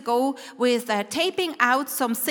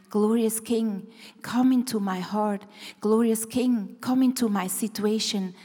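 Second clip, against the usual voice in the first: prayer; 2 semitones lower than usual. Acted. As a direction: pray it sincerely. Prayer inviting the King.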